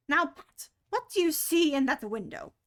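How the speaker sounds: rabbit voice. Acted. Rabbit questioning Pat.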